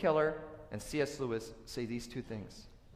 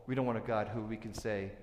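usual speaking voice

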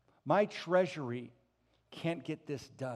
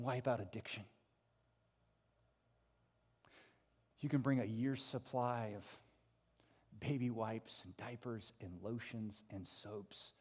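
quieter, earnest sermon; soft preaching; 4 semitones lower, 7 dB quieter than usual. Acted. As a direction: draw them in softly.

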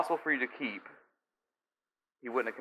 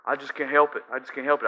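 fast, higher whiny excuse; mock stressed listener; 3 semitones higher, 5 dB louder, faster than usual. Listener pleading with Derek, fast and flustered. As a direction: play a frazzled listener rattling off excuses.

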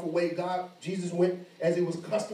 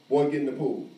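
P=A; retold father's order; 4 dB louder than usual. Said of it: "But it was very forceful".

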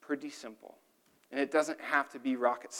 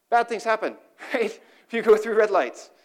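emphatic warning; 8 semitones higher, 7 dB louder than usual. Real, not acted. Punchy warning with laugh.

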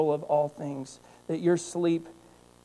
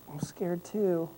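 slow and softer, wry; deadpan scared too; 7 dB quieter, much slower than usual. Retold or imitated. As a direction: mutter it dryly back to her.

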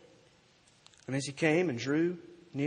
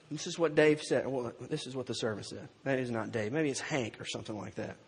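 normal talking voice

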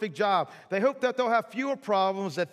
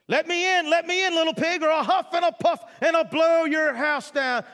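big bad wolf; 9 semitones higher, 4 dB louder than usual. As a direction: roar it like a hammed-up wolf threatening the pig. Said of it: "The wolf then came to the house of sticks".

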